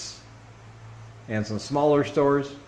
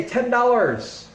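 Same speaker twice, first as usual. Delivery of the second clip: seller quote; 11 semitones higher, slower than usual. Retold or imitated. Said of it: "They say".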